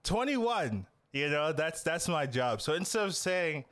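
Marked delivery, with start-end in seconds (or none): 0.0-0.9 announcer voice. Shown as a demonstration. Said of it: "I'll just wait for it".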